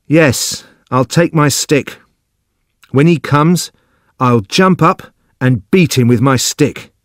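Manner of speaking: high-pitched, drawn-out eager agreement; eager, simple Judson. Acted. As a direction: play a simple man keen on the plan. Narrator voices Judson agreeing.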